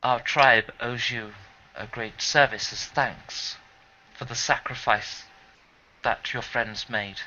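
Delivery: low, slow, solemn tribal elder; lightly voiced tribal leader. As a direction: speak as a grave chieftain. GM voices tribe leader Frick.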